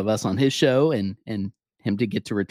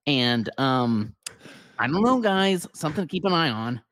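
lightly voiced excited pundit, pitched higher; mock a hyped podcaster breaking news, higher and eager; Bill Simmons impression; 5 semitones higher than usual. Podcaster imitating a national host's hyped arena-vote tease, higher. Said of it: "high-pitched Bill Simmons excitement".

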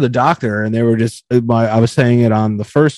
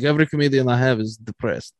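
imitating a blunt doctor, lower and softer; 3 semitones lower, 6 dB quieter than usual. Doctor to online comedian, blunt and low. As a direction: deliver it as the matter-of-fact doctor. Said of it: "she's just, like, very blunt".

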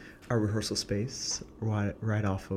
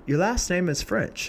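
surprised question; 10 semitones higher than usual. Retold or imitated. Director questions him, suspicious.

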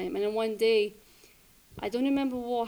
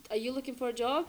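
sudden boss call; 3 semitones higher than usual. Retold or imitated. Restaurant owner blurts job offer.

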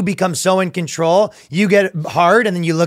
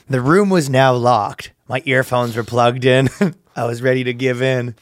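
low, measured storytelling read; dramatic post reading; 4 semitones lower than usual. Acted. Reading a stranger's confession to the co-host, low mock-serious. Reads an online post aloud.

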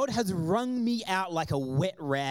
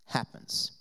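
whispered; 4 dB quieter than usual. Real, not acted. Nothing happens, deflated ending.

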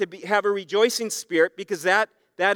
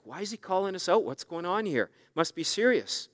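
1 embarrassed hush; 7 dB quieter than usual. Retold or imitated. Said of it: "It's just like".

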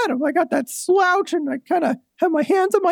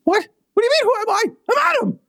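talking doll; 7 semitones higher, faster than usual. Acted. Doll insists it is Adam.

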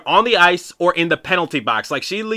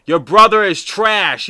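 trash-talk yelling; 5 semitones higher, 3 dB louder, slower than usual. Retold or imitated. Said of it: "I'm just yelling from the top of my lungs".

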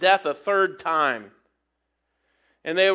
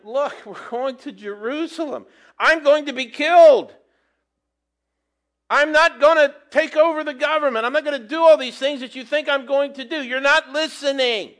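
higher and louder, pressing the point; Jesus insisting; 7 semitones higher, 6 dB louder than usual. Retold or imitated. Jesus to the disciples who won't listen, urgent. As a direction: make them finally hear it. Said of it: "And Jesus is telling them".

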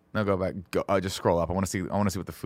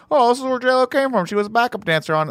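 clickbait narrator; 13 semitones higher, 4 dB louder than usual. Retold or imitated. Mocking clickbait site voice.

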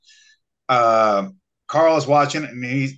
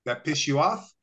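teasing coach challenge; 8 semitones higher than usual. Retold or imitated. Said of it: "and he goes".

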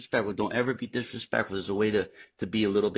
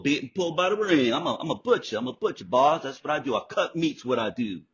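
high, intense acted Southern monologue; raised, strained movie-scene voice; performing the monologue; 7 semitones higher than usual. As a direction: deliver the breakdown speech in character. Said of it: "giant breakdown monologue with Colin Farrell".

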